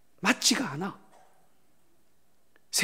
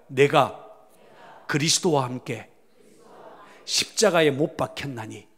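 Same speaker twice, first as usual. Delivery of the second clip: scripture recitation; 3 semitones lower than usual. Shown as a demonstration. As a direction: lead the church in reciting the verse line by line. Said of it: "한번 따라해 볼까요?".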